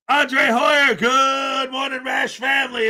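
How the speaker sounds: a big sing-song morning hello; drawn-out hearty greeting. Acted. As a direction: call it out warmly to the whole chat. Calling out greetings to chat.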